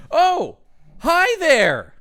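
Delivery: high, loud, drawn-out hello; oblivious greeting. Acted. Cynthia greeting her henchman from the window, oblivious high greeting. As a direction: sing out a cheery hello, blind to the horror.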